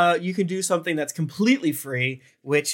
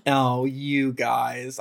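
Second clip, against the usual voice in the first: anger melting away; much slower than usual. Real, not acted. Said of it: "I can't stay mad at you".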